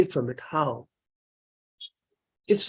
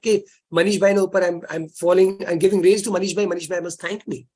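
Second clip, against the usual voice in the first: boastful rain. Retold or imitated. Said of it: "The rains don't expect".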